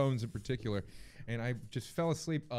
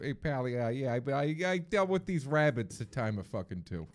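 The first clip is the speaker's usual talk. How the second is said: put-on Boston accent; 3 semitones higher than usual. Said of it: "Boston accent".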